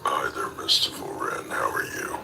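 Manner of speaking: hushed whispered hello. Real, not acted. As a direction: whisper it close to the mic. Whispers in every line.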